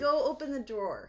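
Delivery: "drawer" pronounced with its final r. Shown as a demonstration. Cohost proves to host she can say it, "drawer" with r. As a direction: carefully sound the r in "drawer". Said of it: "Good job".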